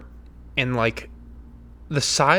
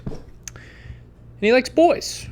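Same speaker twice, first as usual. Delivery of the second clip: teasing singsong; 10 semitones higher, much slower than usual. Acted. Gossiping about Charlie Sheen.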